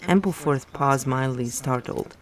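steady read-aloud novel narration; story narration. A narrator's reading. Reader narrating a novel chapter aloud, in storytelling voice. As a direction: read the book to your listeners, evenly.

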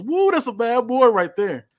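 high, loud, slow hype-man whoop; hype-man yell. Acted. Manager Bivens ringside hyping Melo with a loud whoop. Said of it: "He yells".

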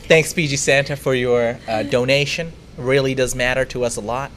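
muddled attempt at a southern-leaning American accent; confused American accent. Shown as a demonstration. Host thanking a donor on request in a confused American accent. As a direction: fumble through a put-on American accent. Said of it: "It's a confused accent".

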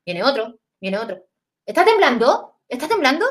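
una abuela nerviosa, el temblando más agudo; abuela asustada. Retold or imitated. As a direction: imita el miedo de la abuela. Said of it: "Y mi abuela empieza". (abuela preguntando si tiembla, con un leve susto)

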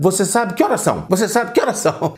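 jokey demo of the mistake; mock double question. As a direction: play the confused double question for a joke. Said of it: "fazendo a seguinte pergunta".

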